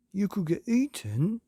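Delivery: put-on child calling down, high and loud; called out. A narrator's reading. Myrtle calls from upstairs window, high and loud. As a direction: shout it down from upstairs. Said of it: "called Myrtle from an upstairs window".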